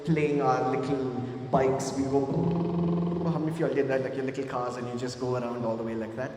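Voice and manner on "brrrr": slow brrrr like a toy car engine; rolled lip brrrr; lip trill. Shown as a demonstration. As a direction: buzz the lips like a kid's bike. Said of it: "when we were little kids".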